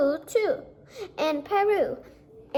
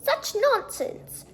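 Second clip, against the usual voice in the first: high, slow cry of disbelief; teacher scoffing at the class; shocked teacher; 11 semitones higher, slower than usual. A narrator's reading. Teacher scolds the children, high and slow. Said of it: "came rushing up quick".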